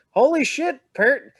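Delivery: high, loud shocked outburst. Retold or imitated. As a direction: blurt it out in disbelief. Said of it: "so I'm like".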